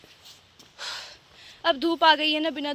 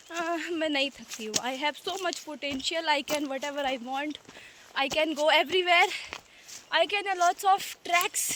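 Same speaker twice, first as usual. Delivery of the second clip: mock self-affirmation; much slower than usual. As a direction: recite it slowly to talk yourself into it. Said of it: "ऐसे खुद को यकीन दिलाना पड़ता है".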